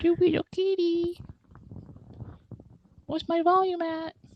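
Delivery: squeaky, very high little cat voice. Asking the other speaker about the volume, in a cat impression voice. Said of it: "that's my impression of the cat".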